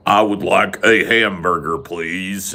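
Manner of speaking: mock a Brit's John Wayne-style American accent; bad American accent. A Brit asked for an American accent, mock cowboy. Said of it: "they all lower their voices".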